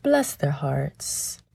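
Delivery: slow, soft Southern drawl; a sweetly condescending Southern aside; Southern accent. Pretend. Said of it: "my best Southern accent".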